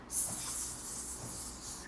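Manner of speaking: long hissing snake sound; voiceless serpent hiss. Retold or imitated. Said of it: "dimasukin siluman ular".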